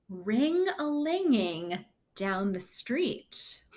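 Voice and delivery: lively storybook read-aloud; reading to children. Acted. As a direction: read the story to the class with bounce. Reads the picture book aloud.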